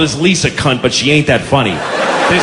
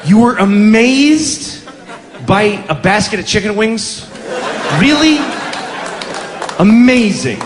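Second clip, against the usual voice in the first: higher, stretched incredulous questioning; mock disbelief; 4 semitones higher than usual. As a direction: challenge them with scornful astonishment. Mock disbelief at overused word.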